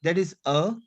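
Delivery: "A" as a neutral uh; French schwa E. Shown as a demonstration. Teacher recaps my E for learners, French schwa E. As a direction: say "A" as a short uh. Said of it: "So my E".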